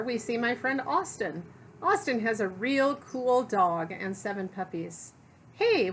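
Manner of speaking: lively, expressive picture-book narration; story read-aloud. A narrator's reading. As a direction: read it to children, punching key words.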